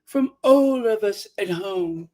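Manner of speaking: lightly mimicked ritzy strain; mock ritzy. Mocking her trying to sound ritzy, strained. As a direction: put on ritzy airs, stretching "all". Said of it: "trying to sound all, you know, ritzy".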